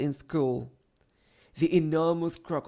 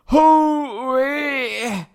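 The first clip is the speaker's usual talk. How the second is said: loud, high cheer; cry of joy; 10 semitones higher, 9 dB louder than usual. A narrator's reading. Children cheering the hippo's charge. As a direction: whoop it out. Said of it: "cried the crocodile".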